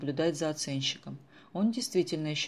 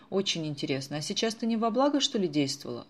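a touch of anger; 4 semitones higher, 4 dB louder than usual. Acted. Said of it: "рассердилась Виктоша".

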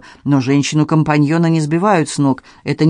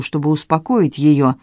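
plain reading voice

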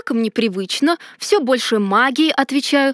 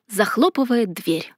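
plain reading voice

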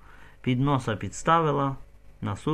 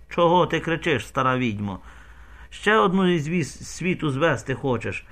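gruff scolding; 5 semitones higher than usual. Acted. Zaluskivskyi scolding the wailing old woman, gruff. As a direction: tell the old witch off.

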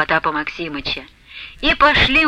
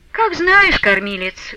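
plaintive; 7 semitones higher, slower than usual. A narrator's reading. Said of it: "жалобно промолвила Аксинья Захаровна".

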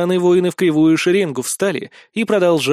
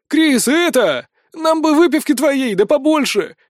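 loud, high call across the noise; shouting over the crowd; 10 semitones higher, 4 dB louder than usual. A narrator's reading. Mercenary shouting to Kris over the crowd's din. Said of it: "кричит мне наёмница уже сквозь гам".

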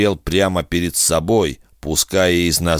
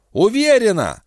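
defiant. Acted. Defiant answer.

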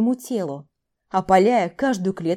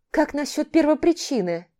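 фыркая; 6 semitones higher than usual. Acted. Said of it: "Фыркнула я".

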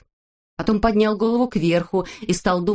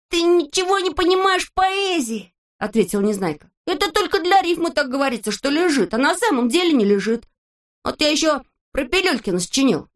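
put-on much higher, proud kid voice; boastful Neznaika; 8 semitones higher than usual. A narrator's reading. Neznaika boasts to his friends in a high voice. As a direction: show off the new poems.

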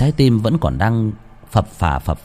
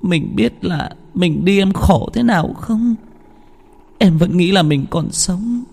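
sobbing wife; 11 semitones higher than usual. A narrator's reading. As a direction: cry out to her dead husband, voice breaking. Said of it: "ôm lấy chồng mà thút thít". (vợ ôm chồng thút thít khóc)

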